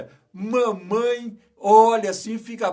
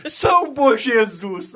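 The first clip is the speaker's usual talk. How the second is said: mock grandma cry; 2 semitones higher, 4 dB louder, slower than usual. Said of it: "Minha avó gritava assim".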